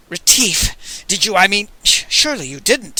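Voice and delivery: choked stammer. Acted.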